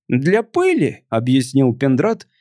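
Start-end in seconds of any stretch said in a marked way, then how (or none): 0.1-1.0 tipsy alien voice. Acted.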